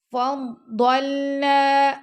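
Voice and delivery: فضلنا with the noon held two seconds, slow; lengthened noon. Shown as a demonstration. Teacher demonstrating noon lengthening for students. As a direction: stretch the final noon of فضلنا. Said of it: "نون کو ہم نے ٹو second تک لمبا کرنا ہے".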